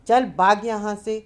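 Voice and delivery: brusque, loud chasing-off; angry dismissal. A narrator's reading. Angry man chases off a beggar.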